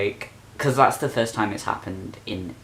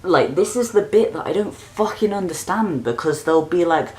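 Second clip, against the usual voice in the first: high, loud exasperated ranting; 7 semitones higher, 5 dB louder than usual. Real, not acted. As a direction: spit it out, fed up and furious. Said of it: "I'm so annoyed".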